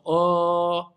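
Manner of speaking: long held Oh; nonexistent sound. Shown as a demonstration. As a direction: sustain Oh as the wrong open vowel. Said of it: "il n'existe pas ce son".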